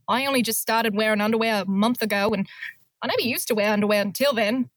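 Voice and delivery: put-on a faint Australian accent, hardly bitter; a half-hearted bitter Australian woman; a mild hint of a bitter Australian accent, rushed at the end. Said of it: "I wasn't very bitter".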